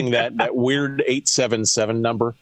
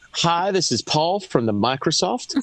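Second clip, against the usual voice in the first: mock standard American caller, slow; unaccented caller; 3 semitones higher than usual. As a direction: play an accent-free phone rep, taking it slowly. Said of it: "You know who's not calling me?".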